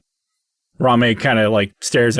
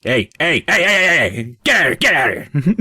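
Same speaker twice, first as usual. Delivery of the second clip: rising urgent calls to shoo someone off; rapid-fire heys climbing into an alarmed order; 5 semitones higher than usual. Acted. Guard suddenly spots an intruder at the book, urgent shooing.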